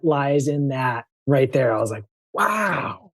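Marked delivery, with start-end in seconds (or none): 2.3-3.1 high, drawn-out wow of amazement; awed wow. Retold or imitated. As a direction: let the sign's message stop you cold. Awed reaction to the sign.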